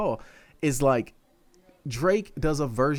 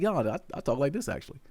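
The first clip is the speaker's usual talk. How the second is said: softer, understated everyday voice; Shaggy's real voice; 6 dB quieter than usual. Retold or imitated. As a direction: imitate dropping the act, quietly. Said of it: "Shaggy's Real Voice".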